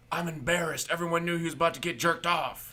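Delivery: mock high embarrassed voice. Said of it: "it's like".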